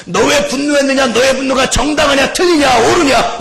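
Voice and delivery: loud, high mock grilling; accusing interrogation. Preacher voicing those who judge others' anger, accusing shout. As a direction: fire off the questions like an accuser. Voices interrogation of angry people.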